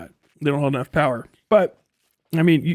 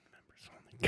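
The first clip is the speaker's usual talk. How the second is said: mocking voice; 12 dB quieter than usual. Real, not acted. Mocking the stream prompt.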